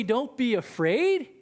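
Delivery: slow, high, disbelieving; incredulous echo. Acted. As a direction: throw his words back in shock. Disciples echo Jesus in disbelief.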